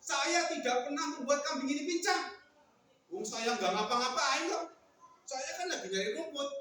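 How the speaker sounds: acted indignant denial; mildly hammed-up grievance; angry. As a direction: protest innocence crossly. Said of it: "kok marah-marah orang ini".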